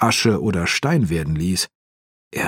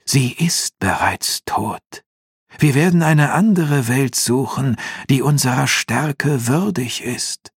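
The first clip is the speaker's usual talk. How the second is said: imperious demon voice, raised and drawn out; slow, grand villain pronouncement; Osaron; 6 semitones higher than usual. A narrator's reading. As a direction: declare it as a haughty dark lord. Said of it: "antwortete Osaron laut".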